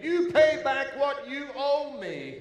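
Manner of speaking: loud, high demand for the debt. A narrator's reading. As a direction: bark the demand at him. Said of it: "he demanded".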